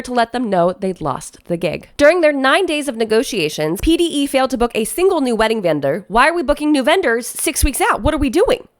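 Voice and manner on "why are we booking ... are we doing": incredulous. Real, not acted. Incredulous reaction to late vendor booking.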